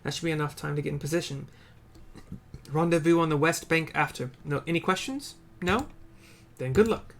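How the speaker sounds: brief the troops like a confident commander. Acted. Commander briefing the squad before the attack, lightly voiced orders.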